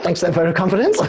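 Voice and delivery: laughing. Real, not acted. Joking at guest's interruption.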